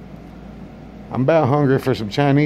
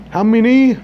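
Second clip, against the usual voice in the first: mock accent; 9 semitones higher, 5 dB louder than usual. Comedian voices restaurant worker.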